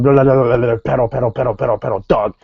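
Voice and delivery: gibberish imitation of a wrestler's rant; mock foreign-language rant. Retelling Del Rio barging in, mock gibberish rant. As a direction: babble nonsense as a mock tirade.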